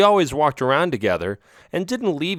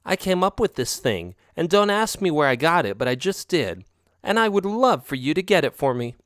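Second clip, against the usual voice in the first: a higher, sweet-talking cat voice; lightly voiced girlfriend cat; 5 semitones higher than usual. Girlfriend cat wheedling her partner, lightly higher voiced. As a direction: coax him with a lightly raised voice.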